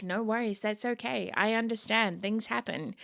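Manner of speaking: lightly acted easygoing boss; understanding reassurance. Boss to worker who arrives late, understanding reassurance. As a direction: let them off the hook kindly.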